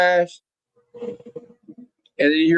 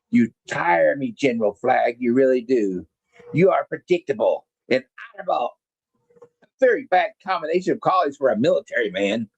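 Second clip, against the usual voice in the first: sneering villain; 4 semitones lower than usual. Retold or imitated. Cobra Commander mocks General Flagg as predictable, lower smug villain voice. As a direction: purr the insults like a bored mastermind.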